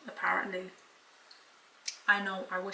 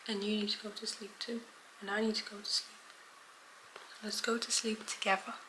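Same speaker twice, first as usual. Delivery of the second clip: soft tender; 4 dB quieter than usual. Real, not acted. Talking tenderly to dog.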